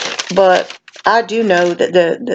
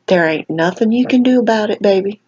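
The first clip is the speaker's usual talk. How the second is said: put-on Southern accent. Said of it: "I'm gonna get Southern on you here".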